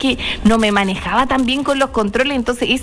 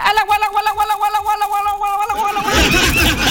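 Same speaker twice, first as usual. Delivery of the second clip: grandfather's call; 8 semitones higher, much faster than usual. Retold or imitated. Host imitating her grandfather calling animals to drink. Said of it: "mi abuelito decía".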